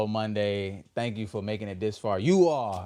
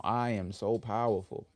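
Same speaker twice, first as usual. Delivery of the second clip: slow affirmation. Shown as a demonstration. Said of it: "Let's affirm that together".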